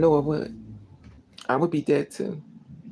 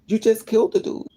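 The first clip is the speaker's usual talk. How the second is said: real indignant outrage; 6 semitones higher than usual. Real, not acted. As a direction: hurl the accusation in real outrage. Outraged at uncaring company.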